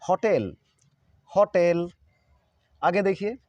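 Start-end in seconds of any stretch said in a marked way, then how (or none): 0.0-0.6 "होटल" with open 'haw' and long 'tel'; correct pronunciation. Shown as a demonstration. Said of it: "आप इसको हमेशा बोलिए". 1.3-1.9 "होटल" with open 'haw' and long 'tel'; correct pronunciation. Shown as a demonstration. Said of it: "हमेशा बोलिए".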